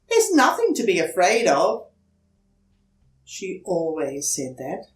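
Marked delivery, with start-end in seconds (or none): 0.1-1.9 a mother's bright, higher coaxing voice; mother comforting her scared son; reassuring mother. Acted. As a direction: soothe the frightened child. Mother reassures Franklin at night.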